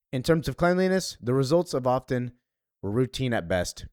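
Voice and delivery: measured reading of a character's memoir; story narration. Acted.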